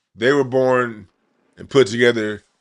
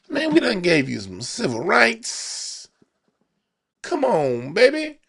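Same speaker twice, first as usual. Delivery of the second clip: high, soft, cooing sweet talk; coaxing player voice; 9 semitones higher, 4 dB quieter than usual. Retold or imitated. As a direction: coax the listener gently like a lover. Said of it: "That's how the Democrats talk".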